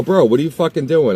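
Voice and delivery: loud, high incredulous yell; angry yell. Retold or imitated. At the kid pushing the table back, loud yell. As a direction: shout at him in disbelief. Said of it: "I go".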